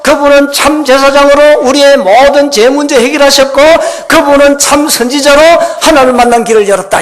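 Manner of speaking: loud, high, drawn-out proclamation; full-force preaching. Real, not acted. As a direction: proclaim each title to the whole hall.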